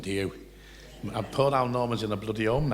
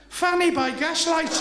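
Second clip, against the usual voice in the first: slow, high, loud deadpan delivery; comic landing the gag slowly; slow deadpan punchline; 6 dB louder, slower than usual. Acted.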